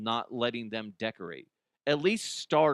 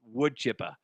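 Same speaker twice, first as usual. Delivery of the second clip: attempted Boston accent. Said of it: "as good as I can get on a Boston accent".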